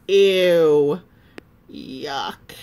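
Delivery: loud disgusted ew. Acted. Lily reacting to the sandwich, loud disgusted. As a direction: recoil at the smell. Lily's disgust voiced in story.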